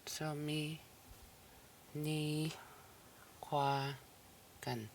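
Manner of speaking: syllable by syllable. Shown as a demonstration. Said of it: "And the final here is the N".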